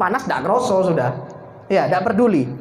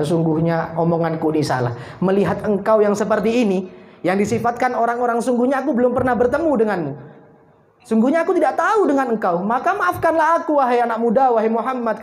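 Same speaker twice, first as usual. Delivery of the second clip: tearful apology; 7 semitones higher than usual. Acted. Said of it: "nangis luar biasa".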